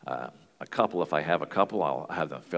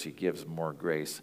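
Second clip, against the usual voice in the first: "more" leaned on, the phrase slowed; stress on more; slower than usual. Shown as a demonstration. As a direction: press the word "more" in "he gives more grace". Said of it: "I emphasize the word more".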